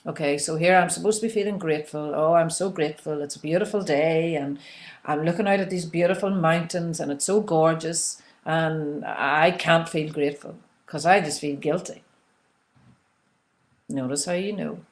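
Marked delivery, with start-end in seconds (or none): 2.1-12.0 pretend guilty. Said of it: "I'll just pretend now".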